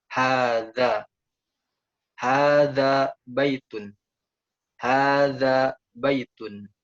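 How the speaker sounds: slow, drawn-out Arabic read-aloud; careful model pronunciation. Shown as a demonstration. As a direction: read each phrase slowly for learners to copy. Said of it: "yaitu dengan pelafalan yang benar".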